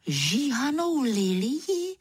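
pomalá, vyšší udivená otázka; hraj, jako by tě to nenapadlo; úžas. Acted. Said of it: "Žasnu". (předstíraný úžas)

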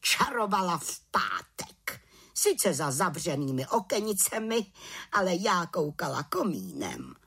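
spiteful tattling. Acted. Aunt tells on the little witch, mildly spiteful tattling. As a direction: add it as a sly jab. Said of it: "přisolila si teta Bimbula".

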